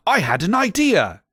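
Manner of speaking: sudden brainstorm announced; mock exclaim. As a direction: burst out with the idea. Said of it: "he exclaimed".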